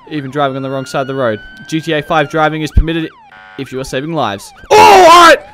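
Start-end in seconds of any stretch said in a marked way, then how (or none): 0.1-1.4 quicker, laughing through it; laughing repeat. Shown as a demonstration. 4.7-5.5 high, loud yelp; startled shout. Real, not acted. Sudden action on hostage call.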